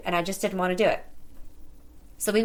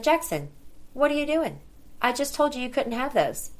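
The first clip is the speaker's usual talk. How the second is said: sharp, raised, high-pitched scolding; exasperated mom; 7 semitones higher than usual. Retold or imitated. Mom catching her son with candy, exasperated scolding. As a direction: demand an answer from a defiant kid.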